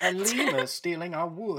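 laughing. Real, not acted. Players joking, laughing at the lemur.

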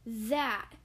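out of breath after the crash; breathless. Acted. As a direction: gasp it out breathlessly. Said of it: "said Squirrel breathlessly".

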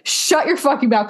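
retold telling-off with laughter close behind; mock angry retort. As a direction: snap back in jest. Voices her retort in joking spat.

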